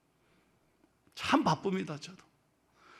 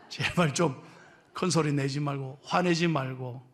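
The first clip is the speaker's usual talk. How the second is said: normal talking voice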